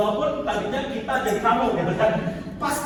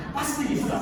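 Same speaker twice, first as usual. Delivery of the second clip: "pasti" pressed higher; stress on pasti; 5 semitones higher than usual. Shown as a demonstration. Teacher showing which word is pressed. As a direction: hit "pasti" hard. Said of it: "kata yang ditekan".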